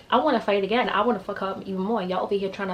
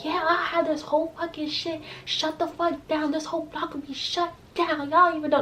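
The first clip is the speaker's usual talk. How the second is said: imitating the girl; 8 semitones higher, 4 dB quieter than usual. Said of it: "she was like".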